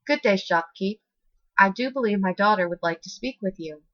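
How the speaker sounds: gentle, lightly done British lilt; a hint of a polite British mother; mild British accent, softly spoken. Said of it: "she asked in a soft British accent".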